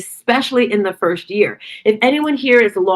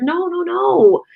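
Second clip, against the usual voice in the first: gentle high reassurance; 10 semitones higher, slower than usual. Retold or imitated. Consoling a teary woman.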